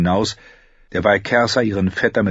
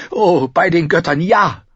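high, loud winded exclamation; breathless, elated; 10 semitones higher, 6 dB louder than usual. A narrator's reading. Cersei eagerly agreeing to the toast, breathless. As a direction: exclaim it gleefully, short of breath. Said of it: "antwortete sie atemlos".

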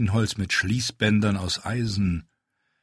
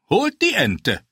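higher, louder cheeky challenge; daring call; 11 semitones higher, 5 dB louder than usual. A narrator's reading. Dwarf dares the riders to fetch the duck, calling out. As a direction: throw down the dare. Tyrion calls a dare.

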